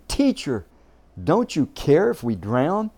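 loud frightened plea; disciples crying out. Retold or imitated. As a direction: shout it as scared fishermen. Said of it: "they said to him".

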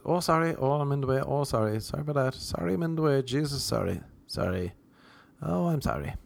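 mock string of small, polite apologies; profuse apologising. Too-polite shopper in grocery stores, reflexively apologetic. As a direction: apologise over and over, lightly and softly.

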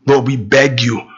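slow, measured praying with long pauses; earnest prayer. Real, not acted. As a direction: address God reverently, phrase by phrase. Leads a closing prayer.

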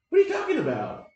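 high, loud, fast disbelieving cry; shocked outburst. Retold or imitated. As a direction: blurt it out in shock. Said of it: "I was like".

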